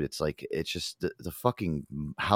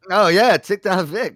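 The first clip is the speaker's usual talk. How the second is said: much higher, louder put-on voice, gasping first; squeaky, over-excited mock guess; 12 semitones higher, 11 dB louder, slower than usual. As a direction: ham up a breathless guess. Answers in same put-on voice.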